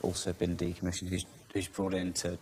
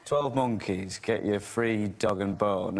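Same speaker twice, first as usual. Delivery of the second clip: slow ad-style Northern line; Northern accent; slower than usual. Retold or imitated. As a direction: read it like a Northern advert. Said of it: "they make him say in O two adverts".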